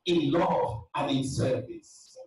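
preaching at full force. Acted. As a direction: preach it out to the church with fire.

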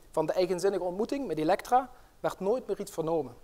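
once-upon-a-time storytelling voice; fairy tale narration. Acted. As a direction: tell it like a fairy tale, with drama. Reads a fairy tale aloud.

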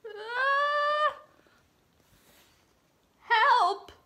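high, trembling frightened cook voice; scared cook. Acted. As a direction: squeak it out like a terrified little cook. Cook cries for help.

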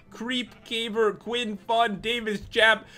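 breathless from reading the list; short of breath after a long list; running out of air. Real, not acted. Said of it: "I'm running out of breath".

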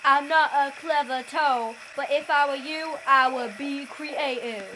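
a hint of a toad voice; frog voice. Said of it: "I need to think of a frog voice".

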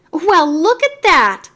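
barker. A narrator's reading. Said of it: "said Mario".

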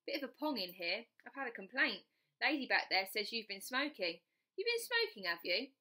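a lightly voiced suspicious guard; nosy ticket collector. Ticket collector accuses smoking.

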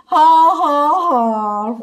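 loud, high ha ha ha; big hammed-up laugh at the joke; roaring laugh. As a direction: roar with laughter. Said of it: "roared Clark".

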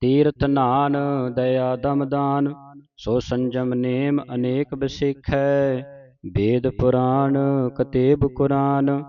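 measured chant-like verse reading; sustained teaching recitation; scripture recitation. Shown as a demonstration. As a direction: recite in phrases, holding the long vowels.

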